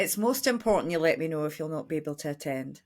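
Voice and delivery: gentle Scottish lilt; Scottish accent. Shown as a demonstration. Testing the co-host on where it's from, gentle Scottish accent. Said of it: "I'll do a Scottish accent".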